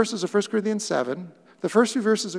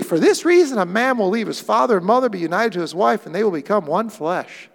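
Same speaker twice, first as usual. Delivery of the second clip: excited declaration; 2 semitones higher, 4 dB louder than usual. Acted. Adam continues excited quote.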